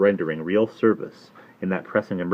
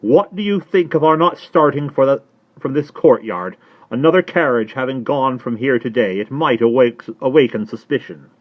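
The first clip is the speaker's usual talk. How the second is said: put-on high, loud, anxious old lady; agitated Miss Pross; 7 semitones higher, 8 dB louder than usual. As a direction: fret at him in a much higher voice. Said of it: "could hardly speak or stand".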